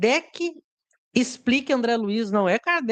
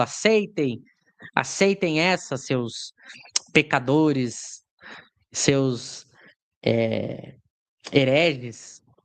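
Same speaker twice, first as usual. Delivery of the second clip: mock gloating, preachy, smug scolding, slow, very drawn out; 9 semitones lower than usual. Describing a man's stance toward the group, imitating his intonation. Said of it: "É essa a entonação que ele tenta dar".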